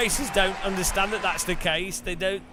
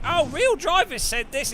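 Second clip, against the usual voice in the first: mocking high voice; 11 semitones higher, 5 dB louder than usual. Mocking a chat claim.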